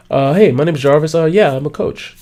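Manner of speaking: hesitant, vague self-intro with uhs; lame introduction. Shown as a demonstration. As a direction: mumble it like you have nothing to say. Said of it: "That's how I used to introduce myself".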